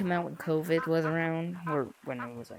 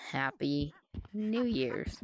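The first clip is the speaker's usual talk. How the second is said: voice crack; much slower than usual. Real, not acted. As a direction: voice cracking mid-phrase. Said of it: "why'd I have a voice crack during that part".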